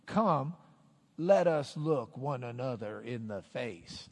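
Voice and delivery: measured, deliberate taunt. Acted. King challenging his rival to mano a mano, taunting. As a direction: issue the challenge word by word. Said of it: "this is taunting".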